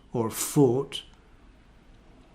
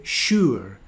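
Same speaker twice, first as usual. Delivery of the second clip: "sure", "pure" with sounded R, "law", "jaw" slowly; Scottish vowels, slow; Scottish accent; much slower than usual. Shown as a demonstration. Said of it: "I would say".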